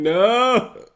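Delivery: high, loud cry of no; shouted no. Retold or imitated. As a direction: echo the viewers' shocked no. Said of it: "They're saying".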